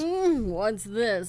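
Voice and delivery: Deku Tree voice. Acted. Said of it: "Yeah, you do it".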